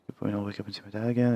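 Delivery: fast, stumbling misreading of the line; rushed misread. Acted. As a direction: blurt the line out too quickly. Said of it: "reread the line".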